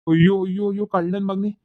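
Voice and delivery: an outraged father berating his son; hammed-up fury; mock outraged cry. Father scolds eloped son.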